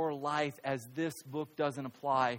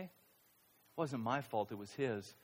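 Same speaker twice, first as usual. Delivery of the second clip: much softer and lower, slow, stress on wasnt and his; quiet excuse; 4 semitones lower, 11 dB quieter than usual. Retold or imitated. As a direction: mutter the blame slowly.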